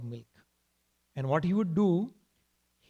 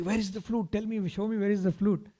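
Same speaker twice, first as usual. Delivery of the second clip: put-on higher, eager child's demand; lightly voiced impatient little boy; 5 semitones higher than usual. Child eagerly demanding promised gift.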